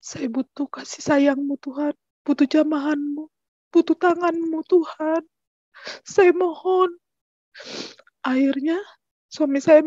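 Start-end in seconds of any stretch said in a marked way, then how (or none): 0.0-7.0 re-enacted plea to God, pitch climbing steadily; pleading prayer. Mother begs God for her injured child, pleading. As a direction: build a mild pleading urgency, rising higher towards the end.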